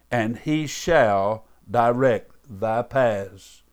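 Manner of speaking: weighty, measured scripture reading with long pauses; slow, deliberate reading. Shown as a demonstration. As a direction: read the verse very slowly and deliberately. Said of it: "read them very slow and very deliberately".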